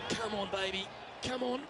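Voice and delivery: excited pleading, rising high; will the shot in, eagerly; urging the ball. Real, not acted.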